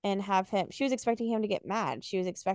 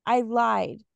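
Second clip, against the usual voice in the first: reading a novel aloud, acting the lines lightly; story narration. Host reads the breakup scene to co-host, in narration. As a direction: read it like an audiobook chapter.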